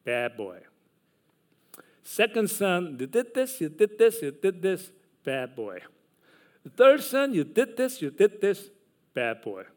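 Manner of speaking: a lightly voiced father tallying up misdeeds; stern father scolding. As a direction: list the kids' crimes like a strict dad counting them off. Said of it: "And he would say".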